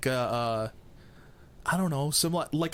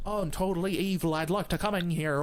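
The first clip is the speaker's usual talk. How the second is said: fake innocent visitor; 7 semitones higher than usual. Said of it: "Connor knocks the door".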